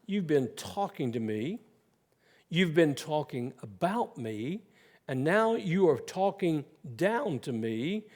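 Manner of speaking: dry, mocking retort; sarcastic. Preacher voicing Job mocking his accusers, sarcastic. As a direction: throw their words back with sarcasm. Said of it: "he very sarcastically says".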